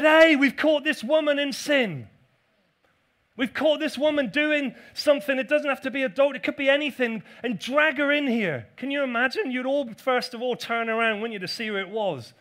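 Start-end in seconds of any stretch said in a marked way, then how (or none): 0.0-8.7 loud, accusing crowd bursting in; demanding accusers. Acted. Accusers bursting into church, loud and demanding. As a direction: call out to the pastor as an angry accuser.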